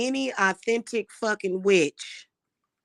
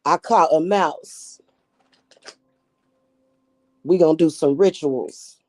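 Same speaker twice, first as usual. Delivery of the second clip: amateur Australian impression, pushed harder; Australian accent; 5 dB louder than usual. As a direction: play an Australian husband announcing news. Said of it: "Is that Australian?".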